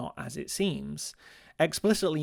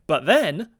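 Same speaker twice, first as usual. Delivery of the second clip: high, very loud dramatic cry; hammed-up yell of danger; mock alarm; 6 semitones higher, 11 dB louder than usual. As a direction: shout the attack as a melodramatic climax. Hammed-up attack climax.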